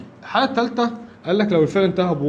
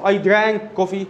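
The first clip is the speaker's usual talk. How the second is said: I drank coffee drawn out very slowly; teacher dictating slowly; slow dictation; much slower than usual. Shown as a demonstration. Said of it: "model sentence".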